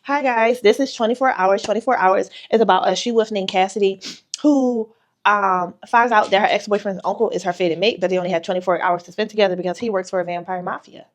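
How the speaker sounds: breezy short promo pitch; book pitch. Shown as a demonstration. Author demonstrates her short marketing pitch, breezy promo read. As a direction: sell the book in one easy breath. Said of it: "this is how I market this book".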